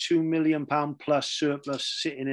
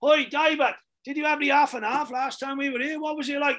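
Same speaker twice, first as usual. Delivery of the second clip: very high, shrill shouting; 11 semitones higher than usual. Retelling ordering lunch at a meeting, imitating someone shouting. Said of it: "someone shouting like".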